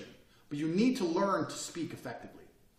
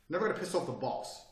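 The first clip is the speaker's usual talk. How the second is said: normal talking voice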